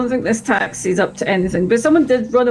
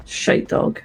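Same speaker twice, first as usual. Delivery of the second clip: whisper; 4 dB quieter than usual. Real, not acted. Muttered insult at a dog.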